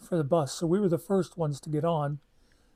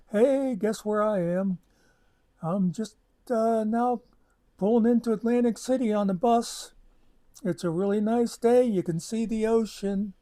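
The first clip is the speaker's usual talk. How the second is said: higher, singsong mock bragging; playful taunting; 5 semitones higher than usual. Pretending to taunt Barb by phone from the bus, teasing lilt. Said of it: "I pretended I was, like, taunting her".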